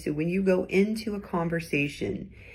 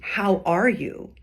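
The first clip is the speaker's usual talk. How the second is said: sincere concern; slower than usual. Shown as a demonstration. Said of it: "Like, truly".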